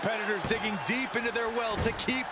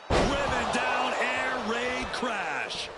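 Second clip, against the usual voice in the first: slow, drawn-out big call; commentator shout; 4 semitones higher, much slower than usual. Acted. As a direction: belt out the move name.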